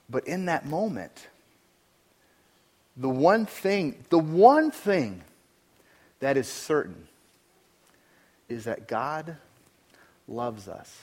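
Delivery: slow, fading assurance; soft closing. Acted. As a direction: lean in and let it land gently. Closing hushed affirmation.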